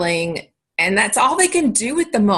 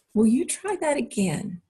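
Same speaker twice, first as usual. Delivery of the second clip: politely ask, pitched higher; a gentle, higher-pitched request; respectful request; 5 semitones higher, 3 dB quieter than usual. Shown as a demonstration. Parent asks yelling child to try again, respectfully. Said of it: "with a respectful request".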